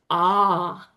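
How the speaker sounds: "ah" like the vowel in car; long open "ah", almost "ar". Shown as a demonstration. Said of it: "like you're saying car".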